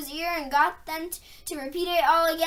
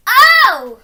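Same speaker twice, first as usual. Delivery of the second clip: loud, high sudden cry of alarm; startled oh; 6 semitones higher, 15 dB louder than usual. A narrator's reading. Susan seeing the statues wake, startled cry. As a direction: blurt it out in shock. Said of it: "Susan in a different tone".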